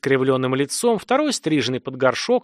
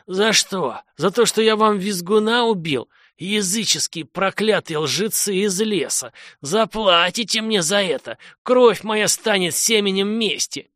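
raised, strained cursing at his captors; a bound lord hurling curses, pitched up high; cursing in rage; 7 semitones higher than usual. Acted. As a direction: spit the curses out from under the trough. Bound man curses the villagers.

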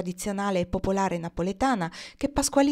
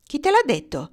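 higher and louder, a jealous shriek; shrill cry; 8 semitones higher, 5 dB louder than usual. Acted. Jealous Carolina shrieks at Carluccio, higher and louder. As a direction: fire the question at him in a shriek. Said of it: "strillò allora".

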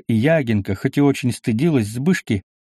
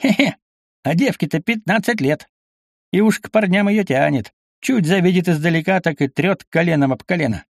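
merry chuckle; 7 semitones higher than usual. A narrator's reading. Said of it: "перешёл от чувствительности к веселью".

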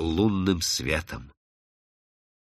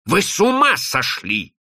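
higher, more forceful outburst; pitched-up, heated outburst; outraged exclamation; 8 semitones higher, 3 dB louder than usual. Acted. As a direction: cry it out in disbelief. Repeats it in outrage.

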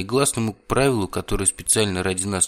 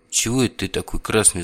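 gloating; 2 semitones higher than usual. Acted. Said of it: "злорадно поинтересовался я".

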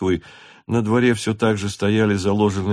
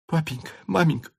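quick, high, eager; eager asking; 7 semitones higher than usual. A narrator's reading. Natasha asking her parents, eager. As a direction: bounce with excitement. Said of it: "спрашивала Наташа".

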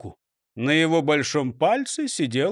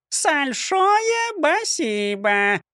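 parrot chirp; 9 semitones higher, much slower than usual. A narrator's reading. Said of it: "прощебетала Клара".

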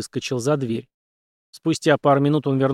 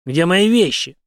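a hard, louder soldier's voice; Henry's question; 4 semitones higher, 5 dB louder, slower than usual. A narrator's reading. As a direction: demand it curtly, voice raised. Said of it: "спросил". (Генри требует свои вещи, громче обычного)

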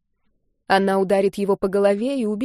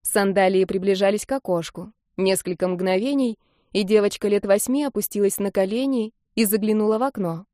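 ordinary delivery, nothing marked

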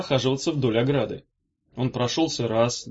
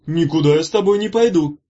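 firm, raised refusal; loud, defiant no; 3 semitones higher, 7 dB louder than usual. A narrator's reading. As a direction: flatly refuse him, loudly. Refusing the bully.

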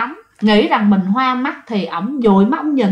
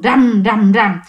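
heavy spoken thuds; imitated wall banging; 4 dB louder, slower than usual. Unseen thing pounding on the family's wall, imitated banging. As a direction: bang out each thud separately. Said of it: "nghe tiếng đập vô tường".

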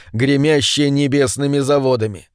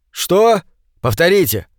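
higher, shouting over wind; 4 semitones higher than usual. Acted. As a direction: yell to be heard.

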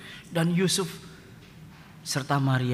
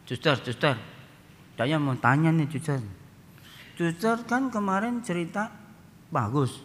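put-on cheeky kid; 4 semitones higher than usual. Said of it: "anak yang agak sedikit bengal".

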